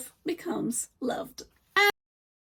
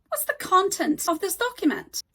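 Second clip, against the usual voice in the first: "content" stressed on CON, as the noun; stress on first syllable; 5 semitones higher than usual. Shown as a demonstration. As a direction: say "content" as KON-tent within the question. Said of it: "we stress the syllables differently".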